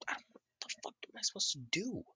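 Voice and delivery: fast, high panicky; panicked. Retold or imitated. Naruto panicking at Kiku's order, fast and high. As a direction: blurt it out in a panic.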